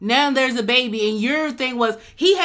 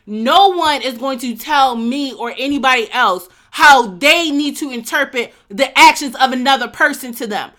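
louder, firm and heated; heated insistence; 3 semitones higher, 6 dB louder than usual. Real, not acted. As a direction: shut the argument down hard. Heated argument over the episode.

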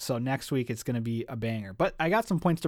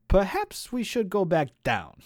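higher, louder storybook dialogue; uneasy character line; 7 semitones higher, 6 dB louder than usual. A narrator's reading. Oliver to Luthien facing the demon, higher-pitched nervous suggestion. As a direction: voice a character urging retreat.

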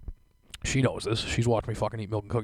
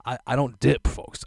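mock indignant; 4 dB louder than usual. Indignant reply to girlfriend.

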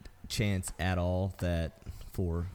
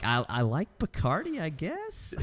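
mock puzzled; 8 semitones higher, slower than usual. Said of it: "Cabo was looking at these like".

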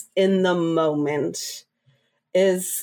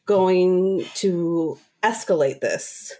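calm, steady; 2 semitones lower than usual. Shown as a demonstration. Worker calmly refusing to escalate with a yelling customer. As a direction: talk her down calmly, no heat. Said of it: "calmly, calmly say".

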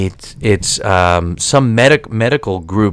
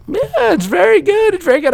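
much higher, overeager polite praise; fake enthusiasm. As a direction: gush politely to hide dislike. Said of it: "I'm like".

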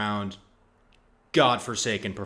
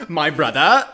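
louder, laughing through the words; laughing in character; 4 semitones higher, 8 dB louder than usual. Pretend. Harry Kane's brother skit, laughing loudly in character. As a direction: break up mid-skit. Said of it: "our impression of Harry Kane's brother".

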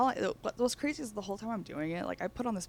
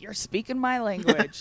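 higher, louder, delighted lady; delighted old lady; 5 semitones higher, 7 dB louder than usual. Retold or imitated. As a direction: answer with delight. Old lady voiced in story.

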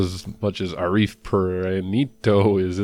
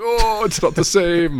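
silly bot voice; 11 semitones higher, 5 dB louder, slower than usual. Retold or imitated. Mocking bots in a silly voice.

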